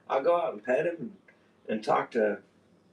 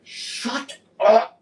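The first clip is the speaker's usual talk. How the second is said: mock shout; 10 semitones higher, 6 dB louder than usual. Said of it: "I'm like".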